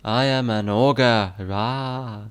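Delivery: slow, loud mock-aggressive ogre in a put-on accent; slow declaration ending in a play roar; Shrek. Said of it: "Shrek is a more aggressive Irish accent".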